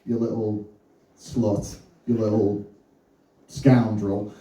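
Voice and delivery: low, growled mock dirty talk. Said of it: "we started trying other shit".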